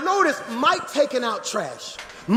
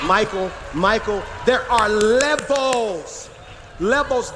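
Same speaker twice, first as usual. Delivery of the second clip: drawn-out preacher's cry on LEVELS; big emphatic pulpit delivery; emphatic preaching; slower than usual. Real, not acted. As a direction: drive it home to the congregation, stretching the key word. Preacher cries out his point.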